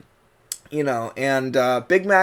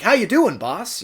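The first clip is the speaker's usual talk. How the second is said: casual general American greeting; breezy hello in general American; general American accent; 4 semitones higher than usual. Shown as a demonstration. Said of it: "a general received pronunciation American accent".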